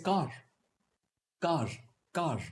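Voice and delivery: "car" ending on an audible R, Delhi Indian English. Shown as a demonstration. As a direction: say "car" with the R pronounced. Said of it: "I pronounce the R".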